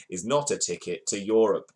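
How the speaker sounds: vague foreign accent, lightly put on; half-hearted accent of no clear country; unplaceable accent. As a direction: read the quote in a wandering made-up accent. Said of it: "I don't know what the accent is".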